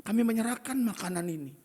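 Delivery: mock prayer.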